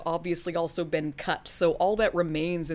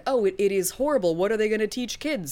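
mock outrage; 2 semitones higher than usual. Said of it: "I do think".

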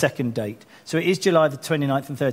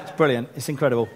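laughing mock excitement; faster than usual. Shown as a demonstration. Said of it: "the British person that's happy".

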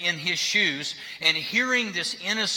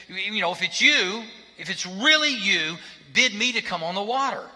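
higher and louder, bold disciple calling out; eager Peter; 6 semitones higher, 4 dB louder than usual. Retold or imitated. Peter calling from the boat to Jesus, eager and loud. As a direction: call across the water, daring and eager. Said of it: "And Peter said".

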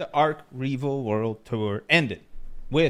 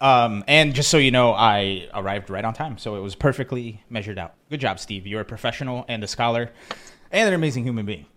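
out of breath; 4 dB louder than usual. Real, not acted. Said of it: "I'm a little out of breath".

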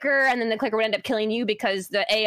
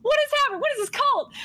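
confused; faster than usual. Retold or imitated. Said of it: "I'm like".

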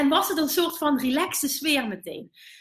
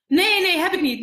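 blunt retold refusal; 5 semitones higher, 5 dB louder than usual. Organiser refusing her a table.

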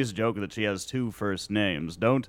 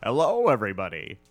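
put-on Wonder Boy voice; 4 dB louder than usual. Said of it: "is that a new voice you're trying out".

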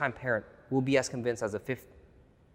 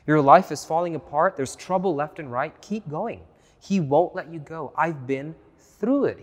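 louder, higher, urgent preaching push; rising exhortation; 4 semitones higher, 6 dB louder than usual. Real, not acted. Preacher urging struggling listeners to keep going, at full force.

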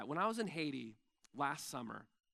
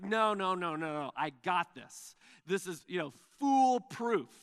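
cocky dismissal; 5 dB louder than usual. Retold or imitated. Cocky inventor brushes off friends.

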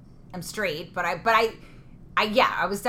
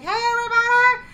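high cheer; 11 dB louder than usual. Retold or imitated. Star greets cheering crowd.

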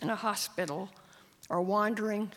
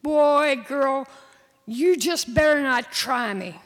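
loud warning, pitched up; angry threat; 4 semitones higher, 10 dB louder, slower than usual. Acted. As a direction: bark the warning hard. Boy threatening sister.

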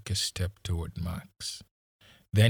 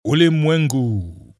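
shouted answer; 6 semitones higher, 11 dB louder than usual. A narrator's reading. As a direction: call it out to finish the saying. Policeman finishes the shouted saying.

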